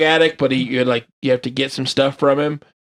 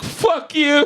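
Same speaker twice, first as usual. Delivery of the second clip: high hammed-up yell; mock angry curse; 11 semitones higher than usual. Bitter bike owner swears at the player passing by, mock yelling. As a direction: spit it at the player like a grudge.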